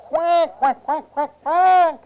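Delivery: high duck quacks, long then short; scared ducklings quacking. Acted. Storyteller plays ducks looking down at the bear, scared quacking. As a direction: quack in alarm like little ducks. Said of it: "they were so scared".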